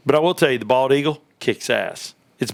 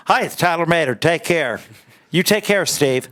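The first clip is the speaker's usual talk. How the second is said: proper goodbye; 5 semitones higher than usual. Retold or imitated. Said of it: "says goodbye like a proper".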